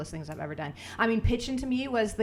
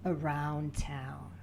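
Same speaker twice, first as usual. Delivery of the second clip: slow, lower stadium announcer call; baseball announcer voice; 4 semitones lower, 6 dB quieter, slower than usual. Pretend. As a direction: draw out the at-bat intro like a ballpark PA. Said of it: "we need the baseball announcer voice".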